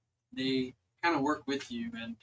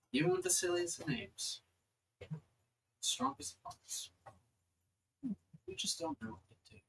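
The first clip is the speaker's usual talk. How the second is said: celestial being in a higher, paused delivery; 12 semitones higher, 6 dB quieter than usual. Acted. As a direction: speak as a goddess, lifted in pitch, pausing between phrases.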